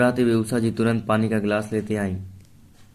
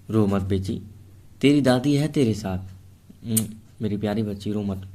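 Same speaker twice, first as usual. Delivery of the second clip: tender comfort. Acted. Grandmother comforting crying girl.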